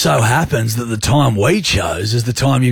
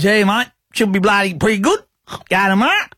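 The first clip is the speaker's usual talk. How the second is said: higher, casual mate voice imitating a friend; quoting a mate's voice note, pitched up; Smithy impression; 5 semitones higher than usual. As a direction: do Smithy's laid-back voice note. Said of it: "a pretty good Smithy, Smith Tech impression".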